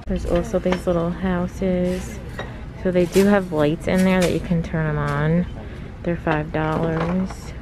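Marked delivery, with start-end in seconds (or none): none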